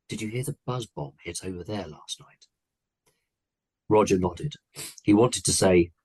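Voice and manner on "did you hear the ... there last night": hushed, softly read question; more quietly. A narrator's reading. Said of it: "then more quietly".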